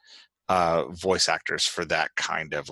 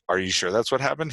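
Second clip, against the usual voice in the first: doubting question, a little raised; skeptical; 5 semitones higher than usual. Acted. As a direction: voice mild disbelief as a question. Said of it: "he said skeptically".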